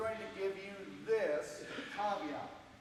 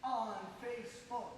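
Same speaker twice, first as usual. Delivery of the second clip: yell back; 6 semitones higher than usual. Shown as a demonstration. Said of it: "you're going to yell back".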